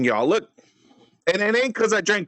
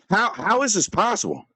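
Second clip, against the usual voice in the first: exasperated disbelief; 3 semitones higher than usual. Pretend. Mock disbelief at rival's calm.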